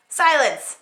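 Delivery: stern order; commanding queen. Acted. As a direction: silence the room.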